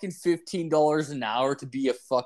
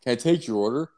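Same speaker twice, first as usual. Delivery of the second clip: pissed-off worker; faster than usual. Retold or imitated. Irritated drive-thru worker asks customer for the order. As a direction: bite off the greeting, then ask. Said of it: "he's, like, fucking pissed".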